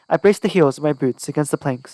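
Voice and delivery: ordinary delivery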